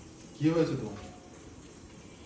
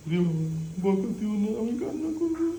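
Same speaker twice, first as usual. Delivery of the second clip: 1 pretend baby plea; 5 semitones higher than usual. Voicing the baby, pleading.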